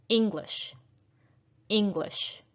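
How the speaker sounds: English with the stress on ENG, falling away; stress on first syllable. Shown as a demonstration. Teacher testing learners' ears, English stressed on ENG. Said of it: "It is the first syllable that is stressed".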